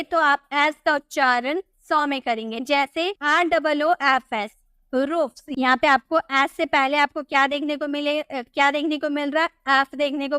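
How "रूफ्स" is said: "रूफ्स" ending in an unvoiced S. Shown as a demonstration. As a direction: say "रूफ्स" with F then S, not Z. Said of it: "इसका उच्चारण हम सौ में किए".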